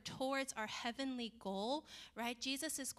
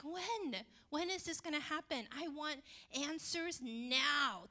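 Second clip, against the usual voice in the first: higher, impatient pleading for answers; impatient demand; 4 semitones higher than usual. Retold or imitated. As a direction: demand it like a restless kid. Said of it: "Sometimes we're just like".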